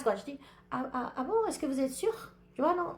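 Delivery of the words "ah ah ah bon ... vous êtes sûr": higher, lightly affected posh politeness; classy choco airs. Acted. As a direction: put on classy airs, pitched up. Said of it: "Quand je, je fais des gens en classe". (petit air choco, faussement classe)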